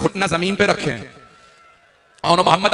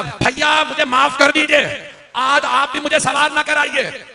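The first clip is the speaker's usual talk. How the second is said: higher, slow, tearful appeal; grieving plea; 8 semitones higher, slower than usual. Acted. Sister asking her brother's forgiveness, tearful and raised. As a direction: plead through grief.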